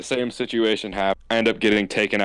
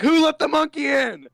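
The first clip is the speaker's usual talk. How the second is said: retold yell; 3 dB louder than usual. Student heckling the teacher across the room, retold yell. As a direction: re-enact calling out across a room. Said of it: "I yelled from one corner of the room".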